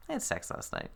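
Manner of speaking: hushed, high, barely voiced confession; soft mock-secret whisper; mock confiding. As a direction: imitate a wife confiding under her breath. Retelling wife's absurd grocery-store confession.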